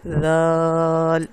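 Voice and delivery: ذال held very long, clear th-sound without any z; drawn-out Arabic letter. Shown as a demonstration. Quran teacher demonstrating the letter ذال, drawn out. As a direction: stretch ذال slowly for learners. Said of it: "ذرا سی بھی ز کی آواز نہیں آ رہی".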